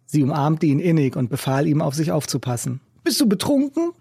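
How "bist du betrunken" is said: calling after her. A narrator's reading. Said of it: "rief Mackie ihr noch hinterher".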